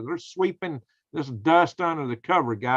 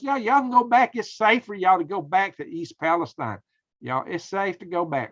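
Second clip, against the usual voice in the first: mock governor; 3 semitones higher than usual. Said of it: "he says".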